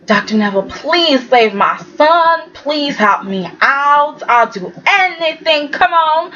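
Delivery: mock-beg him slowly to save her son; imitating pleading mother.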